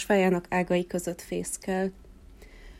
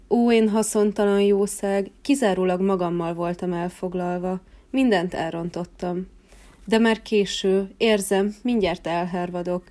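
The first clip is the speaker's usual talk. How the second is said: despairing cry. Acted. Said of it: "kiáltotta kétségbe esettem".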